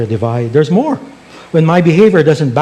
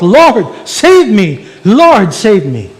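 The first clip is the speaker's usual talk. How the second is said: slow, raised plea for rescue; crying out; 5 semitones higher, 4 dB louder, slower than usual. Acted. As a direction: act out a falling man calling up to God. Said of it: "therefore he cries out".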